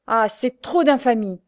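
indignant cry. Acted. Pierre rushing to defend Louise, indignant cry. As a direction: cry out in outrage. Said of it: "cria-t-il au lâche".

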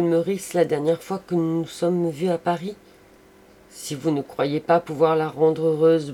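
loud, high cry, easing toward the end; impassioned exclamation. A narrator's reading. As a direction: cry out effusively to a friend. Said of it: "il s'écria en lui montrant Thérèse". (exclamation pleine d'effusion)

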